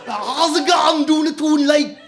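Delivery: high, loud hammed-up Geordie lad; a rowdy Newcastle lad calling out; Geordie accent. Comic imitates his Geordie best friend in a high loud Geordie accent. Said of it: "he's a proper, like".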